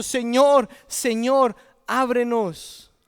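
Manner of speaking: acted cry at a closed door. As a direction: call out to be let in. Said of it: "están gritando".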